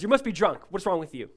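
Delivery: acting out a judging priest; judgmental. Priest accuses broken Hannah of drinking, judgmental. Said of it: "but with judgment".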